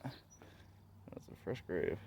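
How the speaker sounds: slow hushed whisper; nervous night vlog whisper. Real, not acted. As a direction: breathe it slowly over the grave. Whispering over a fresh grave.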